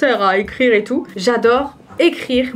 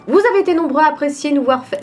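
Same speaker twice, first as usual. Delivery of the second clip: voice-over read; 5 semitones higher, faster than usual. Shown as a demonstration. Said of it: "Je vais faire mes entraînements de théâtre".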